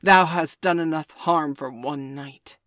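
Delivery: loud, angry order; angry command. Acted. Father Wolf orders the jackal away, loud anger. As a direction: drive him out with your voice.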